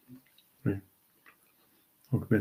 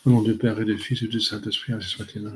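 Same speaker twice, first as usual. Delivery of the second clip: rote, even-toned prayer recitation; closing prayers said by heart; recited prayer. Real, not acted. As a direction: recite familiar prayers in a steady run, little inflection.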